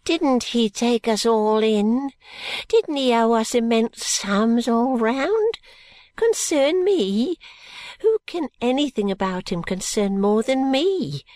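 put-on old schemer working himself up; indignant old man. Old man's indignant tirade.

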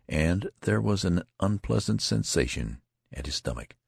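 ordinary delivery

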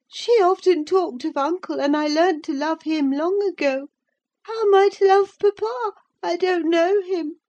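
put-on high childish voice, pressing; a boy who won't let it go; insistent child. A narrator's reading. Linton continues protesting.

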